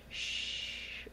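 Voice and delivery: soft, unvoiced shushing; soothing shush. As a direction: hush her gently like calming a patient. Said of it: "trying to soothe me".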